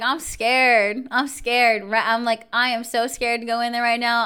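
mildly panicked, pushed-up retelling; retold fear. Telling the guard she dreads going in, retold fear. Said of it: "I was very, very scared".

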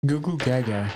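mocking babbling baby voice; baby talk. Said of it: "That's what you sound like right now".

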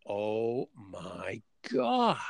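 slow, drawn-out stunned exclamation; sudden realisation. Retold or imitated. Hearing the speaker's line, he is hit by a stunned realisation. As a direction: it hits him all at once.

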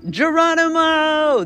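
high, slow Geronimo yell; jump cry. Retold or imitated. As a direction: leap and yell it. Jumping off the barn.

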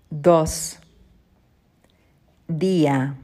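Dado, Dedo, Dodo said slowly with pauses; repeat-after-me drill. Shown as a demonstration. Teacher leading a repeat-after-me drill. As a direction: model each word for the class to echo. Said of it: "Repeat after me".

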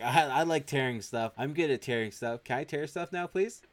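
mock eagerness climbing to a high plea; over-eager. Husband offering to tear her outfit off, over-eager. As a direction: imitate an excited man begging at the end.

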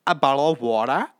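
practising a hammed-up Australian accent; attempted Australian accent. Shown as a demonstration. Practising for a dream job in Australia, attempted Australian accent. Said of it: "work on my Australian accent".

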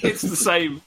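high and laughing: it's the same. Real, not acted. Telling his cohost the rude word matches, laughing. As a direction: say it through a laugh.

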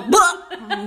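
imitating blunt outburst. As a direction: throw it right out there, mockingly. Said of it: "just out there".

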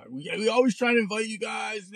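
imitating the friend's offended yell; mock indignant shout. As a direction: throw it back like the hurt friend. Friend's offended reply, retold quarrel.

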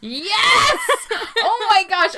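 excited yell, clipping the mic; loud yell. Real, not acted. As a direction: shout it right into the mic. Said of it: "I just yelled so loud into the microphone".

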